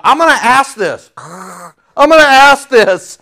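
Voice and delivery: amused, stretched-out musing to himself; half-laughing inner voice; laughing self-quote. Retold or imitated. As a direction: chuckle through the thought. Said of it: "And I thought".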